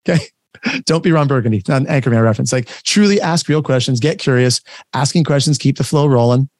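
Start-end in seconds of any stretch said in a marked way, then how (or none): none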